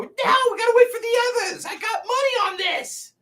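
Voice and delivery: high squeaky goblin crowd. Acted. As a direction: protest like a betting goblin. Goblins waiting for the others.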